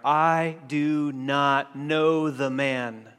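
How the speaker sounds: slow, deliberate oath, word by word; emphatic, drawn-out denial; sworn denial. Acted. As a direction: swear it with measured firmness. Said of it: "he began to curse and swear".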